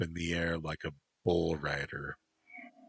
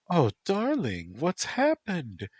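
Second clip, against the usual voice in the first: Black Fan, false sweetness; 12 semitones higher, 4 dB louder than usual. Acted. Black Fan feigning concern for her boyfriend, high syrupy voice. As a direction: fake sympathy, sugar-high.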